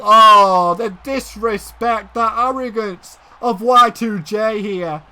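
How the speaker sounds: slow, drawn-out outrage; scandalized commentary. Real, not acted. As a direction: open on a loud long "oh", then stretch the words. Outraged at wrestler's arrogance.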